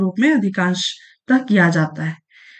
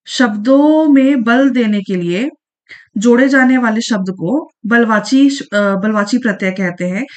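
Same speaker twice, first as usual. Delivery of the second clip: slow dictation. Shown as a demonstration.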